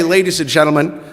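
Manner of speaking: low, announcing with a falling finish; lightly voiced show announcer; announcer intro. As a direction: introduce the star. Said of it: "Frank Junior's voice say".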